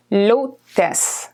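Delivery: l'hôtesse with silent final E; French pronunciation. Shown as a demonstration. Teacher modelling l'hôtesse for students, French pronunciation. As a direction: say l'hôtesse, final E barely there. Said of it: "The E at the end, again, is very silent".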